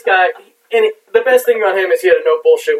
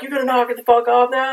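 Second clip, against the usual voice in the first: mock taunting; 8 semitones higher than usual. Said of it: "just was like".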